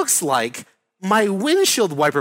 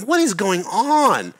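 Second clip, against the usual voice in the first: slow, raised-pitch exasperation; angry disbelief; 5 semitones higher, slower than usual. Retold or imitated. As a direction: retell exasperation, drawing out each word. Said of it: "I'm so angry".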